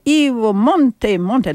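put-on Italian mother calling her boy, drawn out; attempted Italian accent. Mother calls little boy home to eat, attempted Italian accent. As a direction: imitate an Italian mamma's slow call. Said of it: "trying to make an Italian accent".

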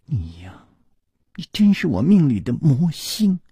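breathy sigh then fond reproach. Acted. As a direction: sigh it out, half giving in. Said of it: "轻轻地叹了一口气".

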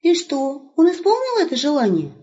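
put-on high, bright calling out to the old man; young wolf hailing grandpa; cheerful young wolf. Wolf asks.

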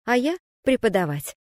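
ordinary delivery, nothing marked

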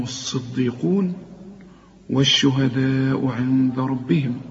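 measured recitation of verses; Quran recitation. Acted. Teacher reciting verses to the class, measured and reverent.

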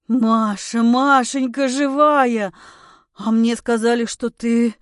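loud, slow, stunned joy at finding her alive; overjoyed disbelief. Acted. Husband finding his wife alive, loud overjoyed disbelief. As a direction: cry out her name, overwhelmed with relief.

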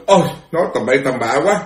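mild mock rebuke, rising high on the dismissal; retold scolding. Fifth Patriarch sends Huệ Năng away before the assembly, retold scolding. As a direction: act out a master shooing a disciple away. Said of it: "Tổ quở, tổ đuổi, phải không?".

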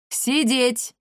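high sharp bark of command; barked order. A narrator's reading. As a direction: snap it like drill sergeants. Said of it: "в один голос рявкнули старики".

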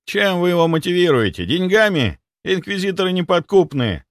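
high, anxious middle-aged doctor voice; panicking clinic head. Acted. Clinic head panicking to the doctor, high and anxious. Somov questions bribery.

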